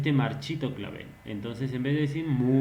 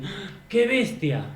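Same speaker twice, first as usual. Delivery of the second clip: scared; 6 semitones higher than usual. Shown as a demonstration. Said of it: "Se asusta".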